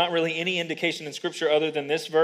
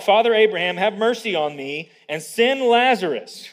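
raised, mildly acted appeal; calling out; 4 semitones higher, 5 dB louder than usual. Preacher quotes rich man appealing to Abraham, calling out. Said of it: "The rich man calls out".

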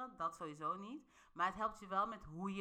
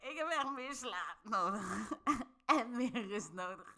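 laughing reframe. Retold or imitated.

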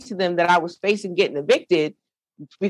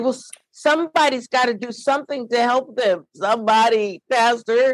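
tearful pleading; 5 semitones higher than usual. Retold or imitated. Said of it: "how you stop crying all of a sudden".

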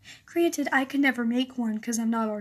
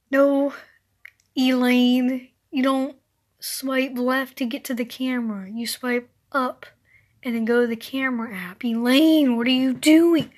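louder, fed-up correcting of a clueless elder; loudly losing patience with Elaine; exasperated scolding; 5 dB louder than usual. Acted. Scolding an old person about phone.

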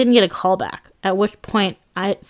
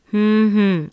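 muffled "hmm, hmm" through a prosthetic nose; muffled hum. Retold or imitated. Squeezing out a hum under the nose piece, muffled. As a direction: hum as if your face is covered. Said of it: "I managed to get out".

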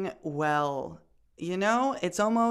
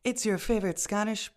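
lightly put-on public radio host; a hint of smooth radio presenter; NPR voice; 3 semitones higher than usual. Host introduces the history podcast in a light NPR voice. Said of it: "doing my N P R voice".

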